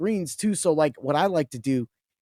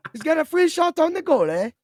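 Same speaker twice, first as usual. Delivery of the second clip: mock commentator; 13 semitones higher, 4 dB louder than usual.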